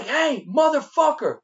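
loud, drawn-out call across the lot; yelling after him. Retold or imitated. Waiter yelling at the customer across the parking lot, loud and slow. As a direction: shout him down from twenty feet away.

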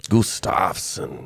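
Gustafsson drawn out slowly as goo-STAAHF-sun; mock Swedish pronunciation. Co-host echoing the Swedish way, slow exaggerated goo-STAAHF-sun for Gustafsson. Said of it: "Swedish pronunciation".

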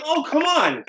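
imitating a high pleading whine; high mock whine. Retelling Anthony's reply to Jon, high mock pleading. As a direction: plead it up high, half mocking. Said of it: "Cumia's like".

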